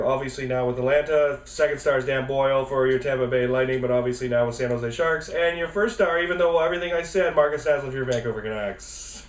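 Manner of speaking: rushed list without a pause; all in one breath. Shown as a demonstration. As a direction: race through it without breathing. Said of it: "Yeah, I'm gonna try".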